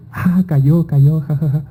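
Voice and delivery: high teasing mock laughter. Friends laughing at the dreamer, high teasing mock laugh. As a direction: gloat like friends who played a trick. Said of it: "mis amigos están riéndose".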